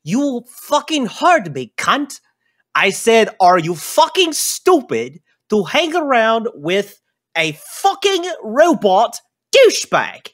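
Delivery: high, loud, furious little dwarf; squeaky enraged dwarf yelling from below; angry dwarf. Acted. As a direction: bark it up at him like a pint-sized brawler. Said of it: "It says".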